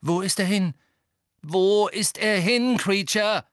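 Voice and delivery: loud, high, mounting question; insistent demand. A narrator's reading. Harry presses the elf, repeating.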